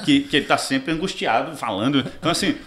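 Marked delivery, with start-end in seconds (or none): none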